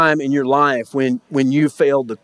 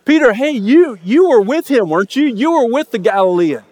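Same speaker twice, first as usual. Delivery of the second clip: higher, pointed accusing voice; accusing servant girl; 4 semitones higher than usual. Retold or imitated. Servant girl accusing Peter at the fire, higher pitched. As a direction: call him out by the fire.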